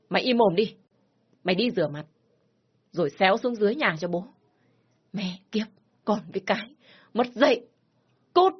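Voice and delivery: furious scolding with high outbursts; angry threat. Acted. Father threatening the lover and dismissing his daughter, angry. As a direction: threaten and throw her out.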